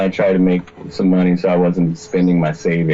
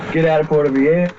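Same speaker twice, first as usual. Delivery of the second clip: higher, mock-commanding devil order; loud devil voice; 7 semitones higher than usual. Devil voice ordering him out of town, mock-loud. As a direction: bark the order as the devil, hammed up. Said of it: "this outside voice ... really fucking loud".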